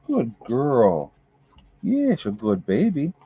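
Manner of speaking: doting praise with swooping pitch; pet praise. Real, not acted. Owner praising the dog as a good baby, baby talk. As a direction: coo approval at a beloved pet.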